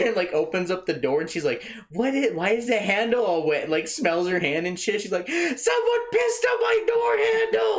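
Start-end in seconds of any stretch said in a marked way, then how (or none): 1.9-3.6 high, baffled complaint; pitched-up puzzled whine; mock dismay. Car owner finds wet handle. 5.3-7.8 very high, drawn-out howl; imitating a loud, tearful shriek; mock sobbing wail. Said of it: "like, sobbing, crying".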